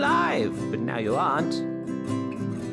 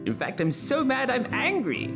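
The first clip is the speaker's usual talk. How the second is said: high, hammed-up indignation; mock anger pitched high; angry Jonah. Jonah rants over the dead plant, comically angry. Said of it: "Jonah became angry again".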